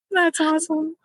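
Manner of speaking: laughing along at the guest's joke; laughing reply. Real, not acted. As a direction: laugh high, then get out the words while still laughing.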